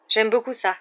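blurted out with keen pleasure; spontaneous exclamation. A narrator's reading. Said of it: "s'exclama Harry sans y penser". (enthousiasme spontané)

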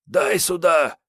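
high, rough snatching demand; gruff Kiryay voice. Acted. Kiryay grabbing syringe from Sergey, gruff demand. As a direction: grab it back, impatient.

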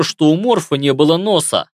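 ordinary delivery, nothing marked

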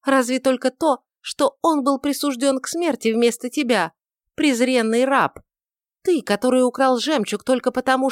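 put-on young woman jeering at her lover; mocking proud young woman. A narrator's reading. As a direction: cut him down with scorn. Judith taunts Barabbas.

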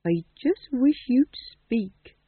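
put-on slow, gentle plea to the boy; softly. A narrator's reading. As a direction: speak it softly and slowly. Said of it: "she said softly".

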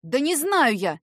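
sudden angry outburst; blurting it out in a temper; flaring up. A narrator's reading. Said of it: "неожиданно вспылила та".

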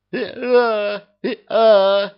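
high braying hee-haw; donkey bray. A narrator's reading. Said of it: "трубный голос за его спиной". (ослиный рёв)

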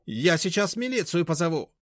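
high, loud, threatening; high indignant threat to call police; shrill threat. A narrator's reading. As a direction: warn him shrilly.

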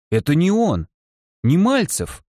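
высокий удивлённый возглас; ахнуть от неожиданности; surprised exclamation. Acted. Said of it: "удивлённый возглас". (удивлённый возглас соседки)

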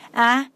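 short, lightly acted yelp of pain; a mild pained cry as the finger twists; understated cry of pain. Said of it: "đau đến thất thanh kêu lên".

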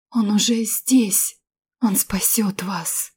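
slow broken whisper; slow faint whisper; dying whisper. Acted. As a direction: breathe the words out while dying. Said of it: "отрывисто прошептать".

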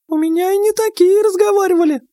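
very high, squeaky little mouse voice. Acted. Mouse reassures the men before his mission, in a very high squeaky voice. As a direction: squeak it out like a tiny talking mouse.

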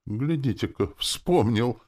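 high, pleased exclamation; delighted. A narrator's reading. Demoness is glad to be remembered, delighted. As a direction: rejoice that he remembered. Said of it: "обрадовалась демоница".

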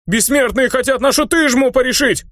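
very high panicked cry from the crowd; panicked yell. Acted. Peasant in the crowd yelling in alarm, shrill cry. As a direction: scream out a warning in panic. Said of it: "завопил кто-то в толпе".

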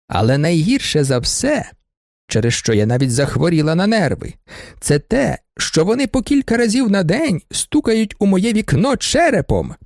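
put-on high, complaining old lady; indignant baroness. Baroness complains to the judge about students, high and aggrieved. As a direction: whine out her grievances, high-pitched.

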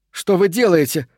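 alarmed shout. A narrator's reading. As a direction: shout it in shock. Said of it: "крикнула она". (Али кричит полковнику, высоко и громко)

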